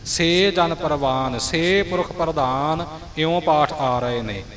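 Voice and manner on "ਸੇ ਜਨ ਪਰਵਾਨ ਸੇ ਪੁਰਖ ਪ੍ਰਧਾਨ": each ਸੇ held as a long "say"; deliberate long vowel on ਸੇ; long lavan vowel. Shown as a demonstration. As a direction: recite with a clear long e in ਸੇ. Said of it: "ਸੇ ਲਾਮ ਨਾਲ ਆਇਆ ਹੈ".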